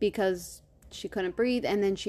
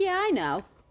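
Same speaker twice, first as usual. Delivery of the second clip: high, breezy, nonchalant tone. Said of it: "just so nonchalant about it".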